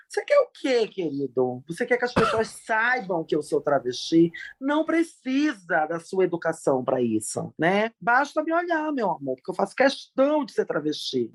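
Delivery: sharp sassy scolding, pitch jumping up on key words; retold scolding. Telling off the flight attendant at the gate, sassy and sharp. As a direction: put the rude attendant in his place. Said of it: "fiz um grande barraco".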